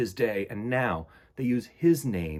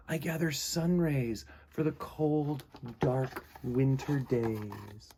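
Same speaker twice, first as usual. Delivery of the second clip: dreamy Frederick; 3 semitones higher, 4 dB quieter, slower than usual. Acted.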